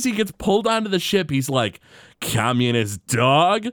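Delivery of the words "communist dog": John Wayne impression. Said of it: "Hartman does his best John Wayne".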